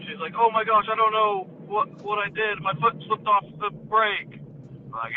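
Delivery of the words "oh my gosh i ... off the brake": higher-pitched retold fluster; freaking out. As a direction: mildly imitate a flustered woman, voice raised in pitch. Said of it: "she's freaking out".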